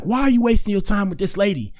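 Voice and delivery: a hint of an exasperated father; mild mock scolding dad; imitating his dad. Dad voiced in retold story.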